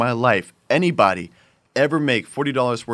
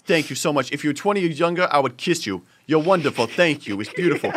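put-on gushing thanks in a light New York accent; imitated customer with a rough New York accent; 2 semitones higher than usual. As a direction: lay on grateful praise, New York style. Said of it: "I'm saying that sort of a New York accent".

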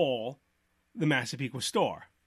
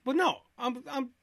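quoted wife; 10 semitones higher than usual. Retold or imitated. Quoting wife defending store.

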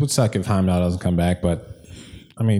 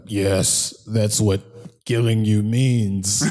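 deadpan obvious answer; much slower than usual. Acted. Acts out Dinklage's reply to Thor.

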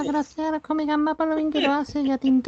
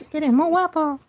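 helium voice; 3 dB louder than usual. Acted. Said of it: "pero con helio".

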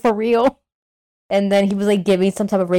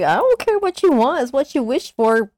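high, dismissive dragon voice; mock Shenron; 6 semitones higher than usual. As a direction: brush them off like a bored dragon.

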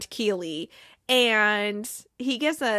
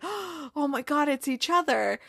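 gasping realization; 4 semitones higher than usual. Retold or imitated. Viewer thinks Ted and Rebecca text each other, imitated amazement.

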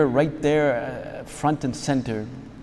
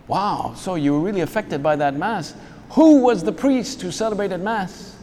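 impressed questioner; 6 semitones higher than usual. Acted. Acts out an impressed listener's question.

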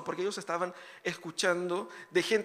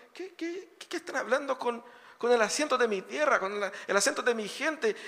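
amazed listener; 4 semitones higher than usual. Retold or imitated. Amazed listener hears home accent.

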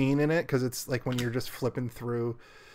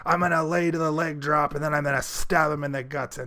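wrestling promo; 2 semitones higher, 4 dB louder than usual. Retold or imitated. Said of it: "a professional wrestler voice".

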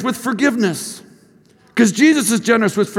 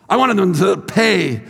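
slow, emphatic demand for payback; retold vengefulness; slower than usual. Teacher contrasting himself with forgiving student, emphatically vengeful. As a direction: lean hard and slowly into it.

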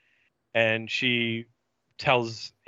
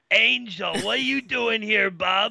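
Tammy voice; 9 semitones higher than usual. Retold or imitated. Tammy greeting Angel in a high put-on voice. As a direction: play the peppy slayer, pitched way up. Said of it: "And she's like".

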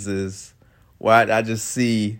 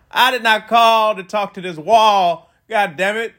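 drawn-out, exasperated, a little higher; slow, exasperated complaint; 10 semitones higher, 4 dB louder, slower than usual. Retold or imitated. To the caller who left the phone, slow exasperated complaint. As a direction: spell it out slowly to the wall.

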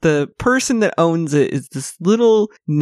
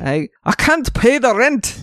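melodrama victim; 6 semitones higher than usual. Pretend. Melodrama rent victim routine.

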